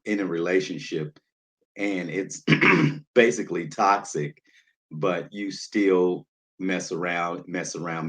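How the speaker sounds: usual speaking voice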